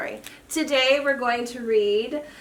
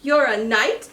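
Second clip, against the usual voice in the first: surprised shout, a little louder; 4 dB louder than usual. Acted. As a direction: shout it in disbelief. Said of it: "shouted Dram".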